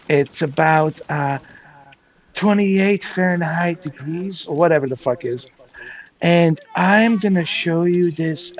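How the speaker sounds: plodding mock vlog presenter, stretching words; imitating telescope unboxer. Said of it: "Even when he did that unboxing of that telescope".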